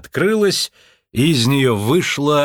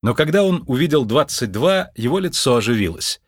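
plain reading voice

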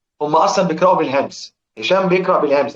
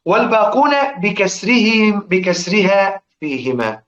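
slow, measured chant of a poem line; verse recitation; 3 semitones higher, slower than usual. Shown as a demonstration. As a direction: chant the verse slowly for the class. (ترتيل بطيء لبيت الشعر)

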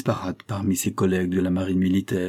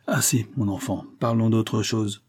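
ferme et lent. Acted. Capitaine coupe court.

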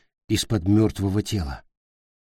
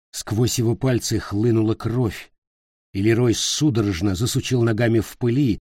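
ordinary delivery, nothing marked

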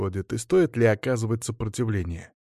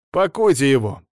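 curt order; 4 semitones higher, 6 dB louder than usual. Acted. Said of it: "Отдал он приказ".

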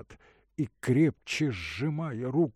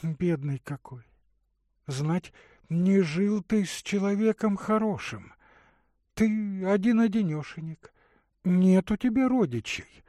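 put-on higher, tender young woman's voice; a caring young woman offering water; Katerina's voice; 9 semitones higher, 4 dB louder than usual. Katerina pitying him.

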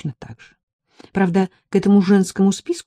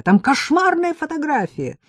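indignant; 7 semitones higher, 5 dB louder than usual. Acted. Героиня в ужасе упрекает.

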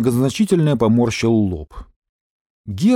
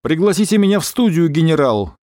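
shouting; 4 semitones higher than usual. Acted. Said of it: "кричал Гера в телефон".

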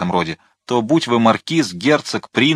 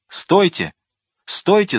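loud commander's stop, the second cry higher and louder; commanding shout; 10 semitones higher, 3 dB louder, slower than usual. A narrator's reading. The monseigneur shouting to stop his riders, louder on the repeat. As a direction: halt your men with a loud order. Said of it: "закричал тот".

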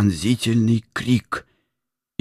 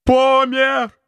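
high, loud shout of terror; terrified shout; 5 dB louder than usual. A narrator's reading. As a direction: scream it out in horror. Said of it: "закричал он от страха". (крик ужаса)

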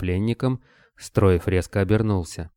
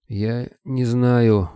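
forced out in pain; 4 semitones higher, 4 dB louder, much slower than usual. Acted. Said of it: "выдавил Кобылин".

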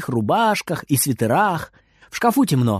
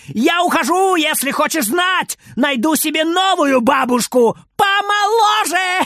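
high, loud yell while running off; 12 semitones higher, 3 dB louder than usual. Acted. Boy yells at grandma as he runs away. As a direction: holler the threat over his shoulder. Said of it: "убегая, он громко вопит".

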